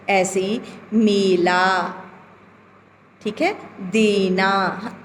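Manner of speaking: मेला and देना with a slow, clear ए; teacher sounding out the ए vowel. Shown as a demonstration. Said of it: "ए लग रहा है".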